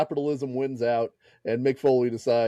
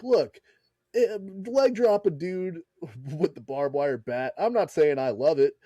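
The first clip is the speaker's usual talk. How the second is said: imitating Bischoff; 3 semitones higher than usual. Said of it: "Bischoff's like".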